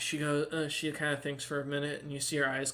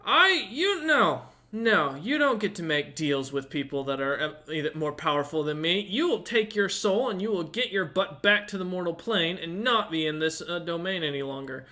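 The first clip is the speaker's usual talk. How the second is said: scolding tiefling; 2 semitones higher, 3 dB louder than usual. Acted. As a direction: berate them like a furious fiend. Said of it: "he looks at you and goes".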